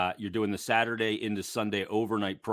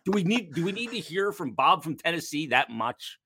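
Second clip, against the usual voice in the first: exasperated rant; 9 semitones higher than usual. Retold or imitated. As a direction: act out the fed-up rant. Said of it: "I'm like".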